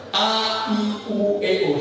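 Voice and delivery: A, I, U, E, O sung out high and slow, mouth wide; open vowel drill. Shown as a demonstration. Trainer leads the class in a vowel drill, mouth wide. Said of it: "sambil dibuka".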